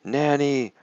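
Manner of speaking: high, drawn-out cry for Nanny; high storytelling scream, held then falling; mock scream. A narrator's reading. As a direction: scream it in pitch, not in volume. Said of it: "And he screams".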